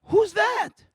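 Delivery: high, loud, puzzled "Who's that?"; high loud friend's question; curious friend. Retold or imitated. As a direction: play the baffled schoolfriend pointing at a photo. Chelsea asking about photos.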